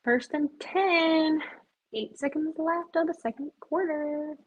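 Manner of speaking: a light sportscaster impression; announcer voice. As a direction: call it like a TV announcer. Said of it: "I don't know why I just said it like that".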